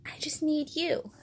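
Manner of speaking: soft, high little plea; gently acted childlike affection; sweet, tender. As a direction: say it as a small, loving confession. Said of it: "says the sweetest thing".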